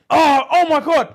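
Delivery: high, drawn-out shocked cry; retold scream. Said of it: "and she screams".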